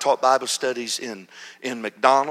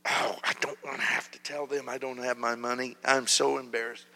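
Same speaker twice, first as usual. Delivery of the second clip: embarrassed inner voice; 7 dB quieter than usual. Retold or imitated. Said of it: "I'm getting ready to just".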